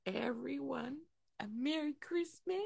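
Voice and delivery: a hint of Mrs. Claus giving holiday wishes; old lady voice. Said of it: "Why are you sounding like an old lady?".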